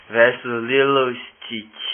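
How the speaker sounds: slow, drawn-out fighter intro; fighting game announcer. Pretend. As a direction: stretch the name like a ring announcer.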